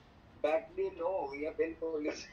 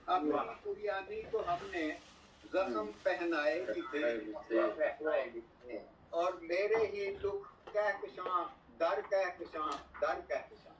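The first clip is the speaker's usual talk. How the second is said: stately nazm recitation. Acted. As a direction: recite each line with weight and pauses. Poet reciting verses at mushaira.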